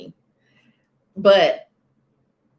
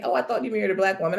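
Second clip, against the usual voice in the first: mimicking husband's voice; 3 semitones higher, much faster than usual. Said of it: "His whole voice was like".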